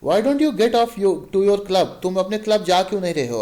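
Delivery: mocking, sneering jab at the husband; wife taunting her husband in front of a friend, mocking. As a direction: needle him with scorn. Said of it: "उसको taunt करते हुए".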